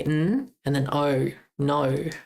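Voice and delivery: "N", then "O", then "no" with the same o; sounded out. Shown as a demonstration. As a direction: spell out "N", "O" and join them as "no". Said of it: "you say the letter O".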